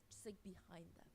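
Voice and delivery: whispered aside; breathy whisper of a spooky detail; hushed aside. Real, not acted. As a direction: drop to a whisper for the creepy detail. Hushed aside about the hammock.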